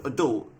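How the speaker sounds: "adult" with the stress at the end, a-DULT; American pronunciation. Shown as a demonstration. Explaining American usage to viewers, "adult" as a-DULT. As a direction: reduce the first vowel of "adult", a-DULT. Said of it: "that's how they say it over in America".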